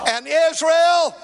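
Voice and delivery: building emphasis. Acted. Build-up repetition in sermon.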